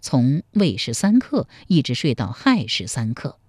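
measured, lively storytelling voice; storyteller narration. A narrator's reading. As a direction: tell the old tale like a pingshu storyteller. Historical novel narration.

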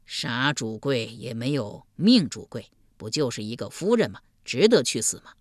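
low ruler coaxing; persuading duke. Acted. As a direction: soothe her in a low voice. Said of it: "劝道".

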